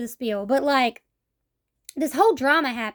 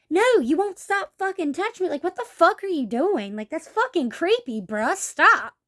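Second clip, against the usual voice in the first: mildly heated, indignant telling-off; re-enacted exasperated objection; retold angry protest; 4 semitones higher than usual. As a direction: act out a fed-up confrontation, ending on a higher punch. Acted confrontation with housemate.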